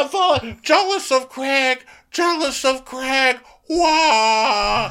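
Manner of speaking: very high fake cackling laugh; mocking Shep's fake laughing fit, very high and hammed-up. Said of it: "Shep's like".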